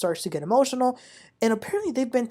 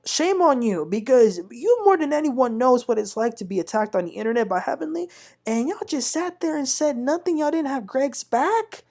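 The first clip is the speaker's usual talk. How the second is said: scolding; 6 semitones higher than usual. Real, not acted. Scolding the silent men.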